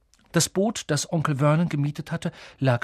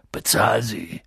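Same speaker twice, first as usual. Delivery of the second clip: low sleepy grunt; Hagrid, grunting; 4 semitones lower, 3 dB louder, slower than usual. Acted. Sleepy giant grunting an order into the sofa. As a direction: grunt it into the cushions. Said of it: "grunzte Hagrid in das Sofa".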